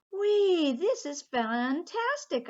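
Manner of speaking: high, loud, thrilled squeal; excited whee. Acted. Pinkalicious surfing for the first time, squealing with delight. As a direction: ride the wave and squeal with joy.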